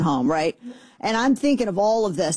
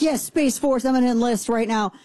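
mildly excited; 4 semitones higher than usual. Retold or imitated. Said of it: "And I'm so excited".

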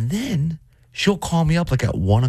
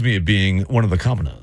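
pompous voice; 5 semitones lower than usual. Pretend. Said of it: "real pompous voice".

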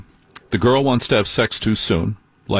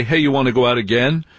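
quick, tossed-off casual invite; offhand ask; faster than usual. Shown as a demonstration. Host shows the wrong way to ask for a second date, quick offhand ask. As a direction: rattle off the question like it barely matters. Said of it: "But don't just say".

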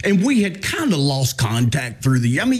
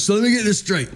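higher, mock-incredulous imitation of a wife; 4 semitones higher than usual. Wife getting it straight with her husband, incredulous. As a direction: lay out the absurdity as the retold wife. Retold wife challenging him in disbelief.

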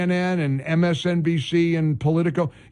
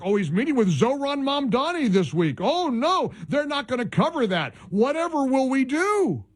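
sarcastic; 4 semitones higher than usual. Pretend. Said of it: "I was being sarcastic".

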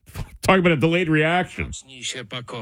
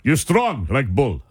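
mock Russian accent; 3 semitones lower than usual. Host jokes in mock Russian English.

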